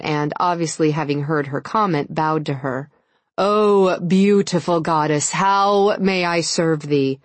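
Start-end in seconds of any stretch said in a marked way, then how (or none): 3.4-7.2 slow, loud, grandly servile; mock reverent. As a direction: ham up a devoted servant. Man mock-bows to her.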